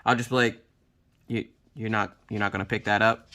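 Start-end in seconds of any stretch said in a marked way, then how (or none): 1.3-3.3 low, soft menacing question; scaring the kids. Acted. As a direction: drop low and quiet, like a parent's warning. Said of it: "I like to scare the kids".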